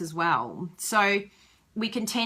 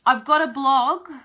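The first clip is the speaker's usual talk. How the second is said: mock defensive reply; 6 semitones higher, 8 dB louder than usual. Voicing a defensive demonstrator.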